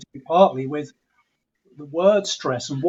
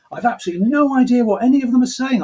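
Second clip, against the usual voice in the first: higher, louder and fast, through laughter; dad amused and bewildered; laughing father, far higher and faster; 7 semitones higher, 5 dB louder, faster than usual. Retold or imitated. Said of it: "my father would turn to me laughing".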